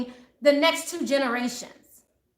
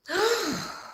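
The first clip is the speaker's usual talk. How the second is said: sigh; 5 semitones higher, 4 dB quieter than usual. Real, not acted. Winding down after the outburst.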